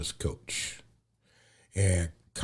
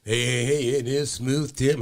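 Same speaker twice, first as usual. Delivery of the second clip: upbeat host greeting; 5 semitones higher, 3 dB louder than usual. Acted.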